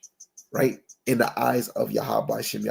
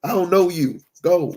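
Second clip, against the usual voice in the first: a hint of a stern Lord, louder; firm refusal; 5 semitones higher, 5 dB louder than usual. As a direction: say it flat and firm, shutting the door. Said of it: "he said it with a straight, firm face".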